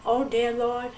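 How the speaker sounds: mildly imploring the Lord to spare her son; gently retold plea to the Lord; retold begging. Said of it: "And I begged".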